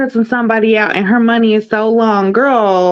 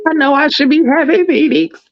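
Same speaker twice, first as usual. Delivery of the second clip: high, hammed-up crying voice; mock tearful apology; 6 semitones higher than usual. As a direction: imitate someone weeping through excuses. Acts out the cast member crying.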